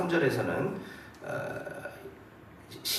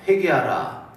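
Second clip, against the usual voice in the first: louder, restrained imitation of a crier; proclaiming cry; 7 dB louder, slower than usual. Preacher quoting John the Baptist's call to repent, mildly crying out. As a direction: proclaim it with a brief burst of volume. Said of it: "다음과 같이 외치고 다녔습니다".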